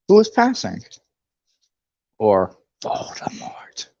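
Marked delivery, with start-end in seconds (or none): 2.2-3.9 slow low whisper; hushed slow spoiler whisper; spooky whisper. Acted. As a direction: breathe the name like a secret. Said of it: "Oh, no, spoilers".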